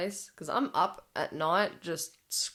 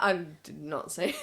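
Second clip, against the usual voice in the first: laughing denial; faster than usual. Retold or imitated. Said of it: "I'm like".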